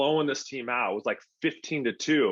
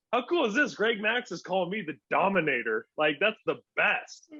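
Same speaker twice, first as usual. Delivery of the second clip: excited; 6 semitones higher than usual. Retold or imitated. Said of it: "And I was like".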